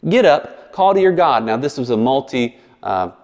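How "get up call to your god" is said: high, urgent call to wake a sleeper; captain rousing a sleeping passenger, high and urgent; alarmed ship captain. Acted. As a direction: shake Jonah awake, high and pressing. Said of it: "the captain approaches Jonah and says".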